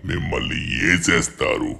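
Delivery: breathy, whispered monster threat; vampire villain voice. Acted. Trapped vampire warning the two boys, whispered menace. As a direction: hiss the warning like a hidden monster.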